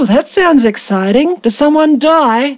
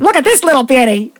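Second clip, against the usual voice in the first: put-on quick Australian accent; Steve Irwin; faster than usual. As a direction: put on an Aussie wildlife-host accent. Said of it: "channel Steve Irwin and Crocodile Dundee".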